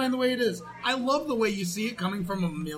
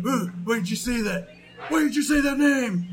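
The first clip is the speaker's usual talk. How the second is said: mock Batman outburst; 3 semitones higher, 4 dB louder than usual. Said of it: "Batman's like".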